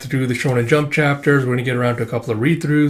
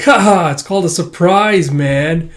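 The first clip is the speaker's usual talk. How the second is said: laughing tease; 5 semitones higher, 5 dB louder, slower than usual. Acted. Asagao teasing Chocho.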